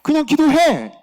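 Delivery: high, insistent order as God; God's command. Retold or imitated. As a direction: voice God cutting through excuses. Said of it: "이렇게 얘기하시는 거예요".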